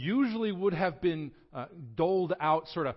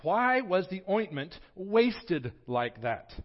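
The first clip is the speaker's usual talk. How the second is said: higher, louder indignant reading; 5 semitones higher, 5 dB louder than usual. Acted. Disciples complaining about wasted ointment, indignant reading. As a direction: read the complaint with offended heat. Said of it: "said to themselves indignantly".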